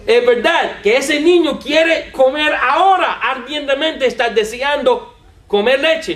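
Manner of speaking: excited laughing shout; excited laughing outburst. Real, not acted. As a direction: burst out laughing and insisting. Excited point after laughing.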